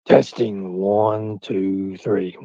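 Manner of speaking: deep, soft, measured mic test. Shown as a demonstration. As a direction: push the count down low and quiet. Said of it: "it needs to be deeper".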